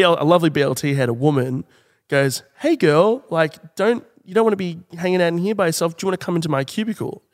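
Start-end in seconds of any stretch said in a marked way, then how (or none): 2.6-7.2 a lightly voiced friendly girl, higher at first, fast at the end; breezy stranger invites her in, quick and chatty.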